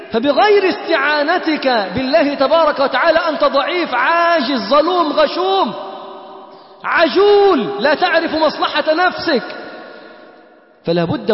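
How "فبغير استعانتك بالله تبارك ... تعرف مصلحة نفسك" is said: preaching shout. Real, not acted. Preacher builds to climax.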